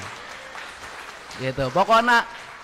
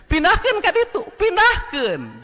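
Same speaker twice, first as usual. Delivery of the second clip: rally speech; 12 semitones higher, 3 dB louder than usual. Real, not acted. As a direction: order it to the crowd. Exhorting crowd.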